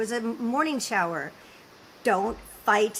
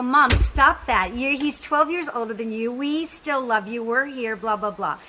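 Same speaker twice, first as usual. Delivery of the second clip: exasperated reassurance; 4 dB louder than usual. Retold or imitated. Acting out scolding worried mother.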